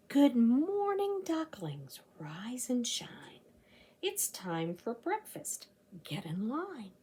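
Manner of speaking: bright greeting, then a hushed rhyme; reading to children. A narrator's reading. Librarian reading the ducklings page to children, bright then hushed. Reads rhyming picture book aloud.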